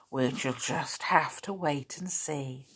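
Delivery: playful whisper. Real, not acted. Teasing suspense to child.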